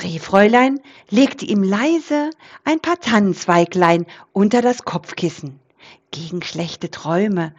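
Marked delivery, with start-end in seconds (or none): 6.1-7.5 soft whisper. Acted. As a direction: lower and softer, gentle. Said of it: "flüsterte sie". (sanftes Flüstern)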